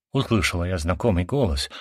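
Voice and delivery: ordinary delivery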